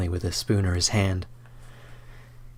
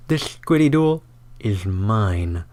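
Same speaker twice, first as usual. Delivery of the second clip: smug gloat; slower than usual. Acted. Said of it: "chuckles to himself".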